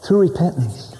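hushed whispered repeat of "Through repentance"; whispered echo. Acted. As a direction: drop to a whisper to let it sink in. Repeated phrase whispered for emphasis.

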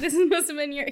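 laughing through the words; giggling as she repeats it. Real, not acted. Friend repeating a movie line while laughing. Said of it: "repeats line laughing".

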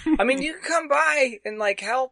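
a fast awkward brush-off; awkward girl voice. Acted. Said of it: "and she goes".

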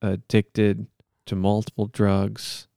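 measured, solemn monotone plea; earnest-sounding improvised prayer; mock prayer. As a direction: pray aloud with halting mock sincerity.

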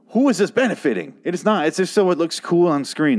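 venting real frustration at a dumb scene; getting angry. Real, not acted. Ranting to viewers about the gas canister scene, really angry. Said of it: "I'm getting real angry".

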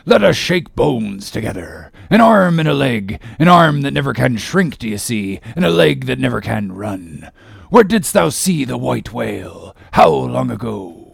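a hint of a gruff old sea captain; lightly voiced Ahab, bluff greeting; walrus-like cry. Ahab greets the other captain, lightly gruff. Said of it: "cried out in his walrus way".

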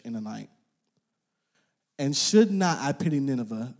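formal shared Bible reading; reading scripture aloud. Acted. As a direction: lead the room through the passage. Congregation reads scripture together.

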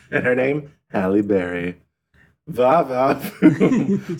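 lightly voiced radio shock jock; leering va-va-voom, hammed up; Howard Stern voice. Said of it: "I turned into Howard Stern there".

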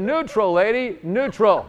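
high, loud, drawn-out reprimand; mock scolding. Preacher telling the healed woman off, mock exasperation. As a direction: stretch the words out in comic exasperation.

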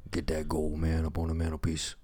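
lightly voiced folksy nominee talking to his mama; a hint of an earnest country boy thanking Mama; a touch of a hokey award-show character; Southern acceptance speech.

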